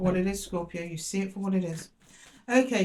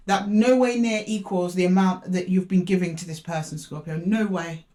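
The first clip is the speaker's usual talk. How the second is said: real indignation, louder; worked up; 4 dB louder than usual. Real, not acted. Reader defending Scorpio's unequal giving, emotional and indignant. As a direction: protest forcefully on someone's behalf. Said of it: "I got a bit emotional there".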